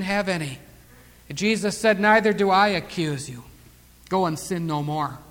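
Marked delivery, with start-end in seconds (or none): 2.0-5.2 soft, low, unhurried; gentle pardon. Retold or imitated. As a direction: release her quietly and tenderly. Jesus gently releases the accused woman.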